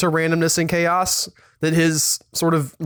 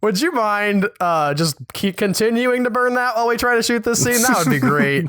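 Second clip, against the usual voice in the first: lightly voiced, a bit higher overly polite request; mock polite crew member; 4 semitones higher than usual. Crew member mockingly asks Paul Thomas Anderson to keep the fire burning, lightly polite. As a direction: ask a rival director politely, with a hint of sarcasm.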